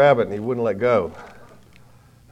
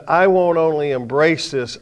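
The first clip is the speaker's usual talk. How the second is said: fervent declaration; 2 semitones higher, 6 dB louder, slower than usual. Acted. Preacher voicing Paul's vow.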